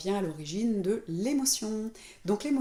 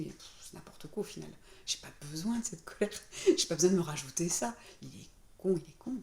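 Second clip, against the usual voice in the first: dismissive. Retold or imitated. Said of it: "je me dis".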